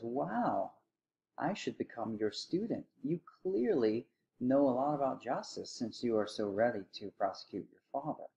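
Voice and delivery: mock-impressed, lightly acted sarcasm; sarcastic. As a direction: feign admiration with a touch of irony. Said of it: "loving sarcasm".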